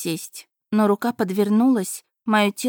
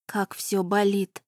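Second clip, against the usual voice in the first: ordinary delivery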